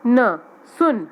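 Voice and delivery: सुन drawn out slowly, syllable by syllable; slow sounding out. Shown as a demonstration. Teacher to young pupils, saying सुन slowly. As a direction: stretch सुन long and slow for the children. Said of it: "teacher sounds out word".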